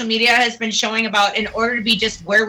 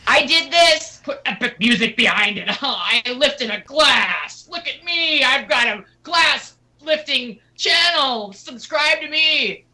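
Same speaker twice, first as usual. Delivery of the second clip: mock influencer video; 3 semitones higher than usual. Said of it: "the videos are just like".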